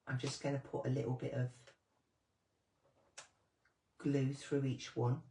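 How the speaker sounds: talking while holding breath; strained, breath held in concentration. Real, not acted. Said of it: "I'm holding my breath again".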